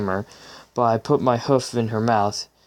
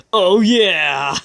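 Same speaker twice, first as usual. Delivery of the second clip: excited whoop; 7 semitones higher, 5 dB louder than usual. Real, not acted. Reacting to make-out scene.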